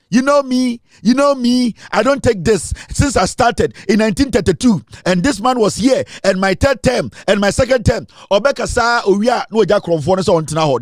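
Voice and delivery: N=Alban Bagbin/public; imitating Alban Bagbin. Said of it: "He will come and read a long statement".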